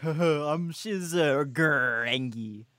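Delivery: imitating a friend's Canadian accent; hammed-up Canadian impression; mock Canadian accent. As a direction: tease with a drawn-out Canadian accent. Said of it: "Shiz is like".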